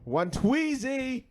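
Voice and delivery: very high, loud, stretched-out cry; hyped shout. Real, not acted. Host hyping next week's episode, high drawn-out shout. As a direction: holler it high, drawing it out.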